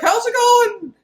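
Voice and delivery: high, loud cheery greeting; jokey menacing hello; mock casual villain. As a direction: sing it out like a fake-friendly villain.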